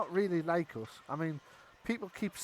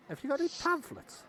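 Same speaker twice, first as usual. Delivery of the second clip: higher, keen little goblin question; eager goblin; 10 semitones higher than usual. Acted. Goblin asking the cleric for pamphlets, higher and eager. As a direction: ask it like a curious convert. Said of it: "looks at you and says".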